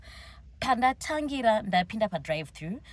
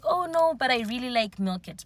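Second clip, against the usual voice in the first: mock protest; 5 semitones higher, 3 dB louder than usual. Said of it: "Then I was like".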